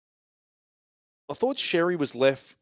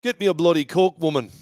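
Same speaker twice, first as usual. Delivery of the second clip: mock English accent with a hint of Scottish; higher, hammed-up English-accented order; 3 semitones higher than usual. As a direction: demand it in a put-on English accent. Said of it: "my African or my English".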